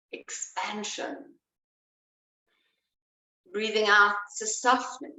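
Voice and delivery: pace the class through each breath; a calm teacher cueing each in-breath and out-breath. Acted. Cues breath rhythm.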